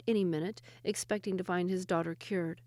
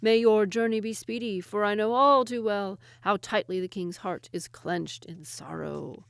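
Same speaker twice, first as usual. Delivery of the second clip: regal king; 4 dB louder than usual. Acted. Chinese king answers.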